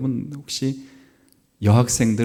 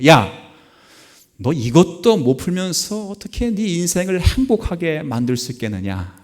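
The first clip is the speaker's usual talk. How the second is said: retold angry scolding; 6 semitones higher than usual. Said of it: "화가 확 올라간 거지".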